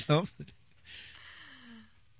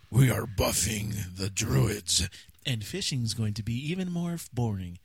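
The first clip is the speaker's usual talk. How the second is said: patch note tone; slower than usual. Pretend. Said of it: "You have to read it with certain tones".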